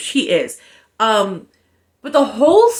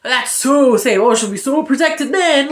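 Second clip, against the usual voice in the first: sarcastic; 2 semitones higher than usual. Retold or imitated. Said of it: "So I'm like".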